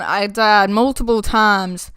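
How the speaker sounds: drifting into a country twang; country accent. Real, not acted. Player puzzled by own weird voice, in a country accent. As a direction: let a country accent creep in. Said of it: "I don't know why I have a country accent".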